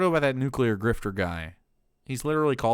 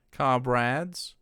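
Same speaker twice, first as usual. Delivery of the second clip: based patriot voice; 2 semitones higher, much slower than usual. Acted. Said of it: "put on the mask of based Patriot seventeen seventy-six".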